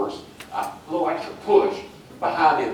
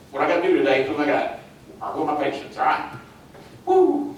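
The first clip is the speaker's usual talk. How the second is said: enthusiastic; faster than usual. Shown as a demonstration. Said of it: "you're like".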